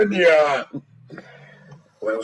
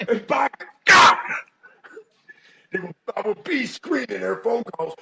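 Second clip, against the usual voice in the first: angry rant; 3 semitones higher than usual. Acted. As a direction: rant like an overprotective dad. Redneck father rant.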